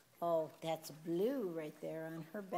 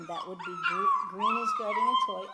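very high, louder, fast puppy-talk squeal; excited squeal; 10 dB louder than usual. Real, not acted. Owner squealing at puppies guarding a toy, high excited.

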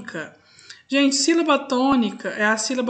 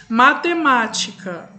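"Matemática" slowly, with the stress on "má"; slow teacher's demo of "Matemática", "má" stressed; stress on third-last syllable; slower than usual. Shown as a demonstration. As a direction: sound out "Matemática" slowly, leaning on "má". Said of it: "penúltima e antepenúltima".

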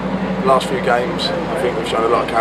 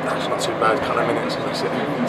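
shivering in an ice bath; talking through chattering teeth; 4 dB quieter than usual. Real, not acted. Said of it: "Turning blue".

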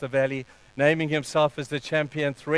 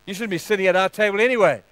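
raised, fast scolding; scolding brothers; 4 semitones higher, 4 dB louder, faster than usual. Acted. Brothers shaming David at the table, scolding. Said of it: "The other brothers would have said".

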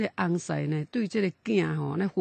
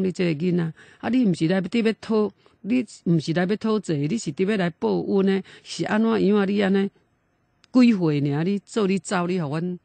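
louder, higher mock wailing reproach; retold tearful lament; 3 semitones higher, 5 dB louder than usual. Father mourning his dead son at night, retold tearful lament. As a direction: imitate a grieving parent crying out. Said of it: "暗时啊哪哭哪哭".

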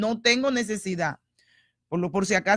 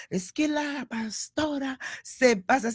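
mock critic voice; 4 semitones higher, slower than usual. Quotes a critic.

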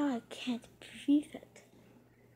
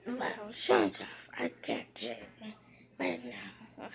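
whisper; 9 dB quieter than usual. Real, not acted. Hushed aside to self.

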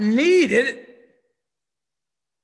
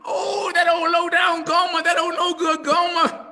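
mock scorn; 5 semitones higher than usual. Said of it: "you agree with me".

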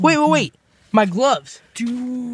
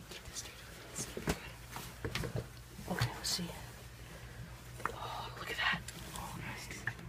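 muffled behind a mask; inside a rubber mask; 3 semitones lower than usual. Pretend. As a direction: whisper through a rubber mask. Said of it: "can't breathe in this mask".

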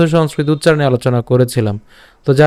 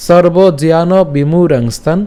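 slow, measured Sanskrit verse recitation; শ্লোক recitation; slower than usual. Shown as a demonstration. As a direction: recite each quarter slowly, drawing out long vowels. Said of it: "আমি আবার বলতেছি". (ধীরে টেনে টেনে শ্লোক পাঠ)

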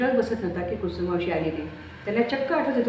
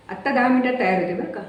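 louder, higher eager promise; bustling with new energy; 5 semitones higher, 5 dB louder than usual. Acted. Mai eagerly promises her son she'll be ready.

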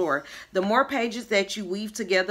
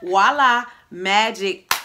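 showy reveal; 6 dB louder, slower than usual. Acted. Mom reveals trick with flourish.

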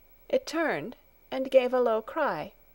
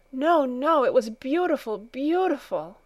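put-on higher child's voice, emphatic; fervent protest; 5 semitones higher, 4 dB louder than usual. A narrator's reading. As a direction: burst out in heartfelt contradiction. Child protests, passionately defending her home.

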